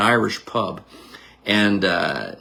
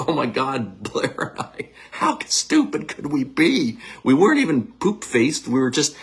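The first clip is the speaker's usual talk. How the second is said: laughing. Retold or imitated. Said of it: "I'd want him to be laughing, going".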